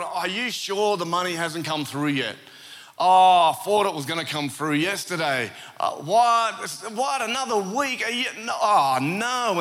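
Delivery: imitating a dismayed caller, pitch rising as it goes; mock disbelief on the phone; distressed. Shopper on the phone about missing money, distressed. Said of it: "I could tell that she was distressed".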